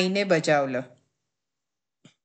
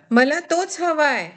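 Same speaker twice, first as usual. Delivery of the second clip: put-on slow, higher, insistent child's demand; loud demand; 7 semitones higher than usual. A narrator's reading. Anil demanding the bottom samosa, slow and loud. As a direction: stretch it out like a stubborn little boy. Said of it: "Anil मोठ्याने म्हणाला".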